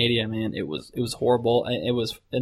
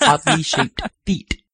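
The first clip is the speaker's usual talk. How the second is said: prim precise elocution; 7 semitones higher, slower than usual. Pretend. Repeating bit in put-on voice.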